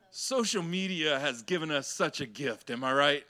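mock praise for social media; sarcastic. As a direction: say it with heavy irony. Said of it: "And I say that so sarcastically".

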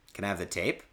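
low, soft, subdued question; retold deflated request. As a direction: ask the boss meekly, all fight gone. Meekly asks boss after being floored.

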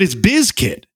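Bizkit with a buzzing z, BIZ-kit; corrected pronunciation. Shown as a demonstration. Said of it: "It's not biscuit, it's Bizkit".

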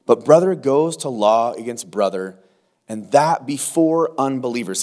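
reading the verses out to the congregation; firm, measured reading of scripture. Acted. Preacher reads the verses to the congregation, firm scripture reading.

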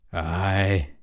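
lightly voiced pirate captain; a drawn-out, grave reply; captain character. A narrator's reading. Hook admitting fear to Smee, lightly voiced captain.

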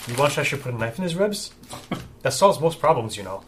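mock Russian accent, lightly done. Bodyguard offering to kill the rival, in a light Russian accent. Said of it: "I'm just going Russian too".

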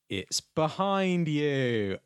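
slow drawn-out panto cue; panto crowd callback. Pretend. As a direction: lead the audience call. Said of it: "let's pretend I'm at a pantomime".

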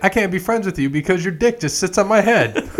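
laughing impression. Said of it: "He's like".

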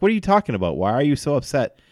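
mock-incredulous retold questions; baffled questioning. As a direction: imitate a coach asking in bewilderment. Retells a coach's baffled reply.

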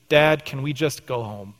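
teeth chattering, shivering words; through chattering teeth. Retold or imitated. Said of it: "he says through chattering teeth".

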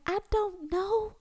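high mock-breezy go ask Google; sing-song brush-off. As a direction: toss it back at the kid lightly. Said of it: "and I'm just like".

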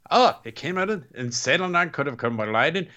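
loose imitation of a Scottish accent; rough Scottish brogue, quick. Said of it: "He's not Scottish".

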